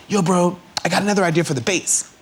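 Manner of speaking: A singer. Retold or imitated. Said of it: "He's like".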